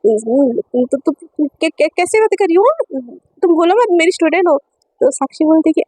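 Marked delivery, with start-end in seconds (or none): 0.0-4.6 flustered stammer. Acted. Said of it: "और ज़्यादा घबराने बोलने लगती है".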